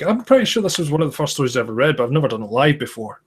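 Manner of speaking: talking through the hiccups; chatting with hiccups breaking in. Real, not acted. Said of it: "I've got the hiccups now".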